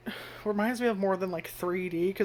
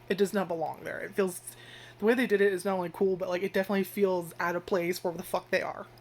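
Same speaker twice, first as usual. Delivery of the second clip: normal talking voice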